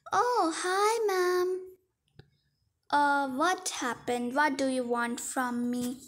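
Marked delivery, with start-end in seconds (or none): 0.1-1.5 waitress greeting. Pretend. Waitress greets customer in skit.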